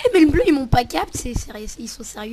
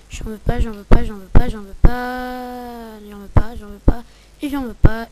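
loud refusal; 6 dB louder than usual. Real, not acted. Refusing steaks repeatedly.

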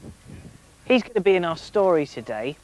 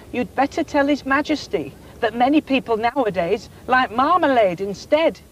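a touch of a drowsy cow voice; mildly sleepy, half-yawning cow; 5 semitones higher than usual. Acted. Cow sleepily advising the dairymaid, lightly drowsy. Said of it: "The Alderney said sleepily".

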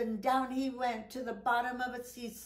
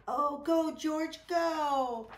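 cheering; 5 semitones higher, 3 dB louder, slower than usual. Acted. Cheering dog on in rescue.

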